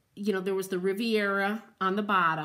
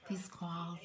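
muttered complaint; 2 semitones lower, 12 dB quieter than usual. Real, not acted. Grumbling about the spam calls.

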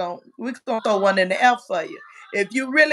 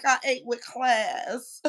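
mocking quote; slower than usual. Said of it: "what she said".

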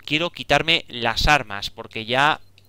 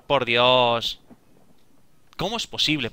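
normal talking voice

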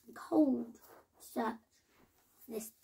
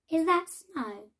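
higher, louder and slow with hope; eager question; 5 semitones higher, 5 dB louder than usual. A narrator's reading. Hare asking Caribou about the white things, eagerly. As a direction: ask hopefully, leaning on that.

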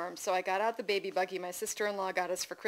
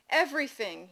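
put-on slightly raised, miserable toddler answer; 5 semitones higher, 4 dB louder than usual. A narrator's reading. Sick toddler telling mother what hurts, miserable. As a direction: answer like a poorly, miserable child. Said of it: "he said miserably".

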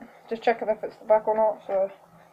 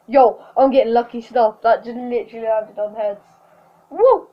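shrieking jackpot winner; 4 dB louder than usual. Real, not acted. Lucky coin flip, cheering.

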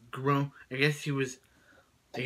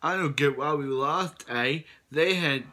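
slightly raised, louder character voice; lightly put-on cartoon contestant voice; Ezekiel; 2 semitones higher, 3 dB louder than usual. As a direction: do your best amateur imitation of the character. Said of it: "I'll do my best in Ezekiel impression".

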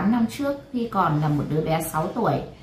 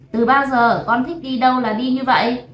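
higher, indignant fatherly reprimand; loud scolding; 5 semitones higher, 4 dB louder than usual. Acted. Father rebukes daughter for going off freely, scolding loudly. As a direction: raise your voice to tell her off. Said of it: "quát to".

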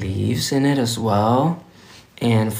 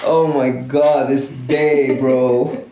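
tired; 2 semitones higher, slower than usual. Real, not acted. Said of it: "I'm so tired".

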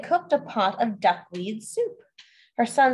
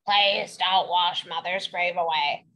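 slow pleading; 5 semitones lower than usual. Acted. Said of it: "they begged the stream".

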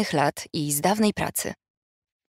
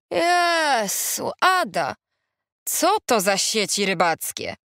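high, drawn-out opening cry; shocked exclamation; 3 semitones higher, slower than usual. A narrator's reading. Friend pointing at holey crochet, shocked. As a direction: exclaim in mild horror.

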